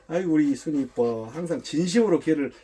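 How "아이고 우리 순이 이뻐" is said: gentle, doting praise; honeyed praise. Shown as a demonstration. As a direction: coo over a beloved dog. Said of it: "칭찬은 아주 부드럽고".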